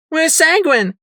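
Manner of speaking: high, loud urgent question; yell. Acted. Psycho Shy flying in, yelling for Sanguine. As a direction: yell it as you fly in. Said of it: "Psycho Shy yelled".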